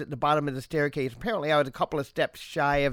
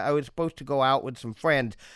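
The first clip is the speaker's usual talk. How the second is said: ordinary delivery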